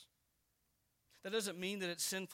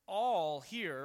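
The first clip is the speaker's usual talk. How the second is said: "all" hit much louder; stress on all; 7 dB louder than usual. Shown as a demonstration. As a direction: land "all" firmly. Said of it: "So when he says".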